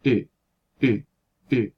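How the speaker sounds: Ü as a short lax rounded vowel; Ü clipped short with lips rounded; short rounded ü demo. Shown as a demonstration. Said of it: "en vez de E, sería".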